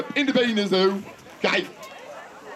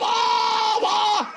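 imitating a crowd of kids yelling at once, higher; mock jumbled yell; 10 semitones higher than usual. Magician mimics the children's mixed-up name shout, high. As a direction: echo their garbled shout, teasing. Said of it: "Jullie heten ook allemaal hetzelfde".

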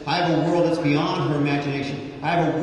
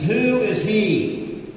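challenging questions; 4 semitones higher than usual. Acted. Voicing challenging generation.

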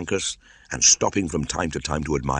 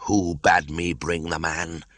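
hissed; slower than usual. Acted. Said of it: "he hissed".

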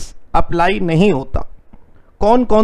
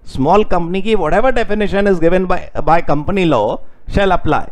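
deliberate word by word dictation; slow dictating voice; teacher dictates the rule; slower than usual. Shown as a demonstration.

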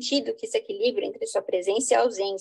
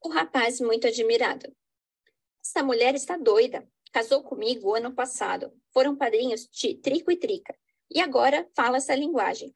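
dramatic reading. Acted. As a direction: lively play reading with characters voiced. Reads Portuguese play with stage directions.

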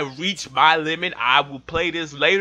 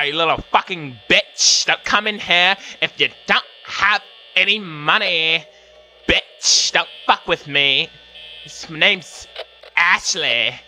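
lightly hammed-up mean-girl taunting; white girl voice. Playing Ashley cussing out Becky, mild white girl voice. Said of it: "all the white girls talk like this".

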